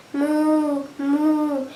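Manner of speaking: level easy moo; cow mooing. A narrator's reading. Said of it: "And the cow mooed".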